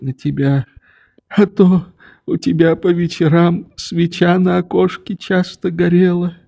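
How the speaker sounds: put-on tender, confiding old man's voice; longing old father. A narrator's reading. Father telling his daughter how he watched her window, tenderly.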